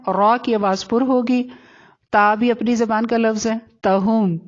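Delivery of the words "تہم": تہم with a light t, never thickened; thin ta. Shown as a demonstration. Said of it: "اس کو ایسے پڑھنا ہے". (تہم کی تا باریک)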